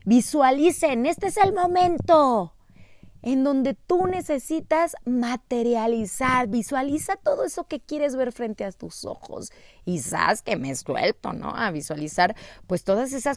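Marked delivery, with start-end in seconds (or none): 0.0-9.5 rousing guide calling to the group, high-pitched; Kesia. Retold or imitated. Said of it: "porque nos dijo que sea".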